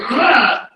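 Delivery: short groan of frustration; brief disgusted groan; exasperated ugh. Acted. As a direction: let out a quick, put-on ugh. Imitates the feeling of being shaky.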